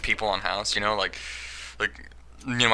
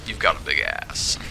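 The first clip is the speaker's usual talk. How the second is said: House quote; 6 semitones lower, slower than usual. Retold or imitated. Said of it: "I went into the House quote".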